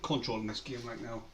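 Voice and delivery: hushed whisper under his breath. Real, not acted. Quiet aside during football game.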